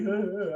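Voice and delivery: high-pitched fake boo-hoo laugh; mock sobbing laugh. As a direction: laugh as if crying in self-pity. Mock woe at missing the feast.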